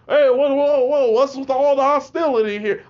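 loud, high calming-down protest; alarmed teacher. Retold or imitated. Teacher reacting to a student's threat, loud startled protest. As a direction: imitate a startled teacher calling for calm.

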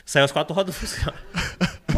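half-laughing retelling; amused retelling. Real, not acted. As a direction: let the laugh leak in.

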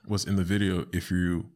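ordinary talk

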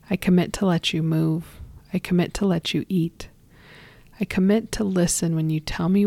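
gentle, deliberate blessing with whispered line ends; slow body blessing. Shown as a demonstration. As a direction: speak it like a calm guided affirmation. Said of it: "I'm gonna say it slow".

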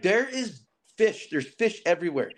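mock yell about a great find; retold excited yell. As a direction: imitate an excited call without real shouting. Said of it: "he's yelling at me".

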